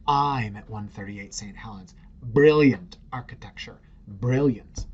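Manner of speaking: slow, drawn-out mock British accent. Dinner party guest bragging about the building, mock British accent. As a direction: play a smug guest with a fake British accent. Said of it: "If you're not British".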